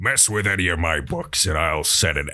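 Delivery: lightly voiced grumpy orc; a hint of a cantankerous orc librarian. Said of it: "they all sound like this".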